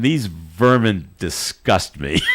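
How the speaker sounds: slow, sneering wrestling heel, half laughing; a playful heel sneering at the crowd; mock villain disdain. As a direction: drag it out like a hammed-up bad guy. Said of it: "He looked out of the crowd with such disdain".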